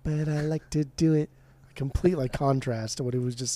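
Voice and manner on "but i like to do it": lightly imitated angry declaration; mock angry singer. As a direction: state it slowly with mock anger. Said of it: "it's so, like, angry".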